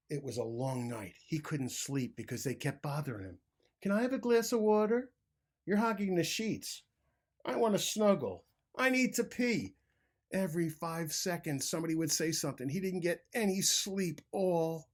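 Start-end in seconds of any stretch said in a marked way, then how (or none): 3.8-9.7 high, squeaky little voices nagging; needy critters whining at bedtime; pestering animals. A narrator's reading. Animals in his bed pester grumpy Bruce with high nagging voices.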